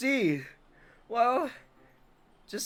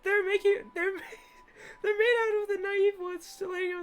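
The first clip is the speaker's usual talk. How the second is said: put-on high, shy girl voice with laughs; flustered timid schoolgirl; anime girl voice; 9 semitones higher than usual. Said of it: "best girl voice I got".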